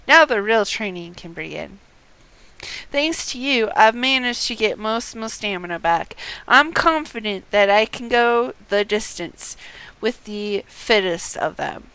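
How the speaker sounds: a hint of a proud warrior, partly slowed; reading as Haman. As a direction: read the warrior's lines with a touch of pride. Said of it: "Haman says".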